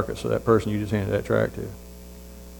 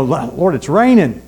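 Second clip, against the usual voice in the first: whining to God, higher on raining; mock excuse; 3 semitones higher, 4 dB louder, much slower than usual. Preacher retelling his excuse to God, mock whining. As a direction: plead your excuse like a reluctant Moses. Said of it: "I was pulling a Moses".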